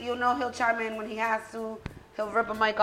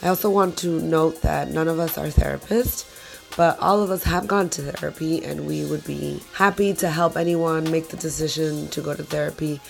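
lower, hoarse voice from a cold; 6 semitones lower than usual. Real, not acted. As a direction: sound like you're sick with a cold. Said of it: "Please excuse my voice, I do have a cold".

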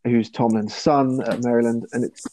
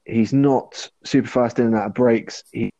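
choppy, cutting-out connection; glitching audio. Real, not acted. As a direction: voice dropping in and out over a bad line. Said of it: "You're breaking up, Jack".

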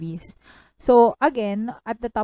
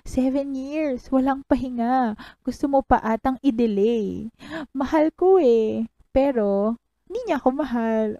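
reciting heartbroken line; 4 semitones higher than usual. Retold or imitated. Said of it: "kadiri na memorize ko na".

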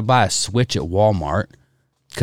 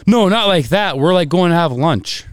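mock daughter; 6 semitones higher than usual. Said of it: "daughter reply".

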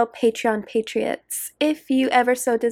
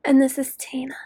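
softer whisper. Pretend. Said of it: "I sound like one of those anti-smoking commercials".

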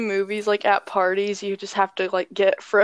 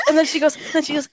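laughing; 5 semitones higher, much faster than usual. Real, not acted. Laughing while retelling.

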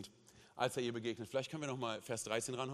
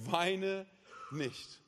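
quoting Jesus; 2 semitones higher than usual. Retold or imitated. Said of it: "Und dann sagt Jesus diese Worte".

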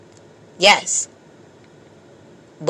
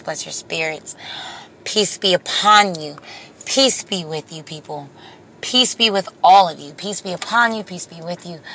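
blessing that fades softer line by line down to a whisper; soft benediction fading to a whisper; spoken blessing; 4 dB quieter than usual. Real, not acted. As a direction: bless them gently, letting it drift away. Blessing viewers at video end.

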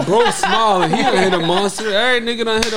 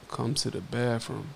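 quoted text; 8 semitones lower, 14 dB quieter than usual. Retold or imitated. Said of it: "she just texts me like".

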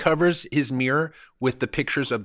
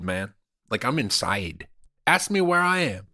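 mock Cuban accent. Comedian bragging to cohost about being inside Hollywood, in a mock Cuban accent. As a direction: play a fake Hollywood Cuban tough guy in a Cuban accent. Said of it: "I was using an accent".

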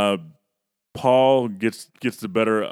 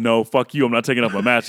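a defiant retort, a bit louder; mild mock defiance; 3 semitones higher, 5 dB louder than usual. Paul refusing to take off his mask, a bit louder and defiant. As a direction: snap back at them, refusing.

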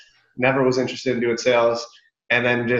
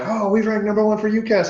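proud quote said much higher, mocking it; mock boast; 9 semitones higher than usual. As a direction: parody the company's bragging in a high voice.

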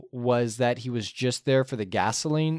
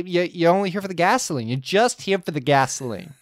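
mock line prompt; 3 semitones higher, faster than usual. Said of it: "If you forget the line, just say".

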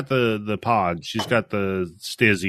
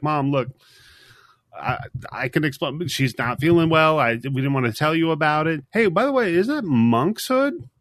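put-on flustered teen daughter; 5 semitones higher than usual. Daughter covering, changing subject.

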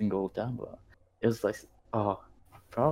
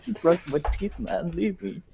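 higher-pitched, laughing plea; laughing mock protest; 10 semitones higher than usual. Retelling being caught brushing teeth, laughing mock protest. Laughingly acting out own reaction.

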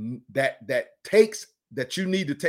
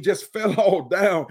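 laughing; 3 semitones higher, 4 dB louder, slower than usual. Real, not acted. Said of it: "don't y'all laugh at me".

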